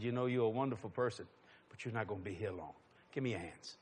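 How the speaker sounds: low, hushed, earnest address; quiet, intimate pastoral voice; solemn blessing. Retold or imitated. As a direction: speak softly and gravely to her alone. Retells solemnly praying over the cashier.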